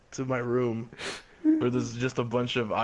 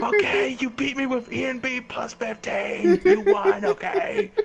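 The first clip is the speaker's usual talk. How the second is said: high, loud, hammed-up concession; exasperated surrender; 6 dB louder than usual. Patient finally admitting defeat to his rival, exasperated outburst. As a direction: give in loudly, pitch shooting up. Patient gives in under threat.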